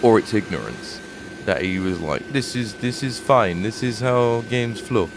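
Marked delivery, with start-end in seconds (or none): 2.3-5.1 slow, lightly put-on Eastern European accent; drawn-out mock Eastern European dev voice; a faint Eastern European accent, slowed down. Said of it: "I don't know why I've made him Eastern European".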